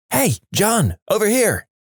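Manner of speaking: calling out. Retold or imitated. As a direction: call over to a friend without shouting. Friend calling out from hiding.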